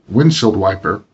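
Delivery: "windshield wiper" with WIND pronounced most heavily; "windshield wiper", heaviest on WIND, weakest on the last syllable; stress on first syllable. Shown as a demonstration. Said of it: "first syllable is more heavily pronounced".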